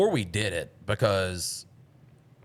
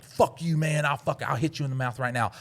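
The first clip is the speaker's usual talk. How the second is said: retold anger; 5 semitones higher than usual. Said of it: "the worst anger that I've ever had".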